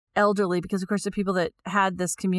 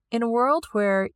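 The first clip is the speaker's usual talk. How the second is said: radio announcer. Shown as a demonstration. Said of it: "it makes me sound like a radio announcer".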